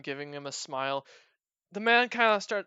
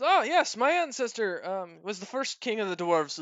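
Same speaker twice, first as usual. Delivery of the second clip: proud dwarf; 3 semitones higher, 3 dB louder than usual. Acted. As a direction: boast of your royal blood. GM voices Hugo.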